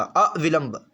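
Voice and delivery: अविलंब with the first vowel set apart, "a... vilamb"; syllable split. Shown as a demonstration. Teacher modelling the spelling, अविलंब split after its first vowel. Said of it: "अविलंब होता".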